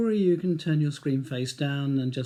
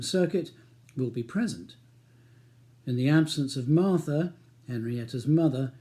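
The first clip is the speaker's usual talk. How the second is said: measured audiobook narration; calm novel reading voice; story narration. A narrator's reading. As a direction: read the story steadily. Reads the novel aloud.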